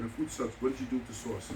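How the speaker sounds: low, softened voice for a discreet complaint; retold whisper. Diner to owner while everyone's eating, retold whisper. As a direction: imitate a hushed aside without really whispering. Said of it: "so I had to whisper to him".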